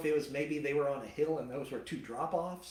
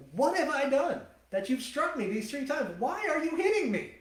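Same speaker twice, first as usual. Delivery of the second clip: high pleading donkey voice; 11 semitones higher, 4 dB louder than usual. Retold or imitated.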